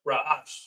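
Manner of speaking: "ra'ash" as rah-AHSH; pronounced "ra'ash". Shown as a demonstration. Teacher gives the word to repeat, sounding out "ra'ash". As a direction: model "ra'ash" as two open syllables. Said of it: "that's pronounced".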